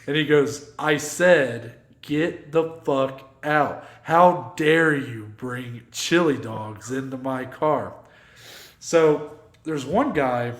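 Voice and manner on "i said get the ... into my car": a driver's slow, deliberate telling-off; hammed-up slow menace; slow mock fury. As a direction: drag out each word like a threat. Driver repeats order, furious.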